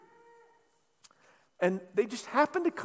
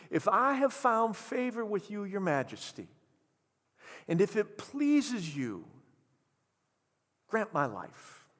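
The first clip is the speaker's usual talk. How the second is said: careful plea. Retold or imitated. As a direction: plead humbly with the king. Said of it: "she says".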